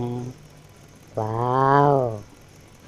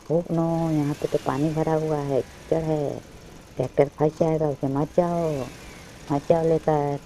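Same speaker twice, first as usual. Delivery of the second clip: put-on higher-pitched playful warning to children; raised, worried toy-play voice; mock alarm; 4 semitones higher than usual. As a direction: warn of the mud in pretend worry. Toy tractor about to enter mud.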